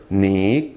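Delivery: "ni" low and dipping; third tone. Shown as a demonstration. Teacher pointing out each tone, low third-tone "ni". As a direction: dip "ni" low in isolation. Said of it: "third tone".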